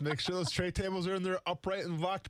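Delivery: slow, calm cabin announcement; lightly voiced flight attendant. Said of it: "Great job".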